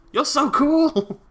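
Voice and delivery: high, slow gushing praise; gushing squeal. Real, not acted. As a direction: squeal with delight. Gushing at dinosaur.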